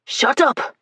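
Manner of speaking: angry yell. Acted. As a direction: yell at her to stop. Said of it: "the soldier yelled".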